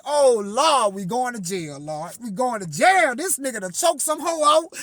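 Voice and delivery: hammed-up fear of jail; mock panic. Panicking about going to jail.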